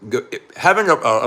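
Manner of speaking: usual speaking voice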